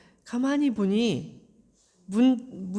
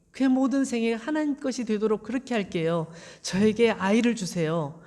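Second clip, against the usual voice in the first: earnest prayer. Acted. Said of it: "라고 간절하게 기도를 했어요".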